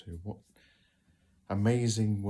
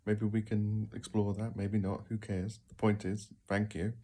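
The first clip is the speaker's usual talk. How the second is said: mock surprised reply. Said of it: "you go".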